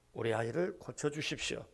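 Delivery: soft, low humble request; subdued plea. Acted. A father begs Jesus to heal his child, subdued plea. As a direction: ask quietly for help, voice dropped.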